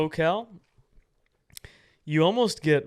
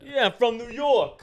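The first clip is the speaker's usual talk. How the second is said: higher, louder, slow knowing drawl; mock reaction; 8 semitones higher, 5 dB louder, slower than usual. Host mocking the reaction to New York, slow and high. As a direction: draw it out knowingly.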